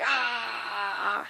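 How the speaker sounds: soft drawn-out cry of pain; mock pained cry. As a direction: let out a restrained agonized "ah". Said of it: "You know, painful".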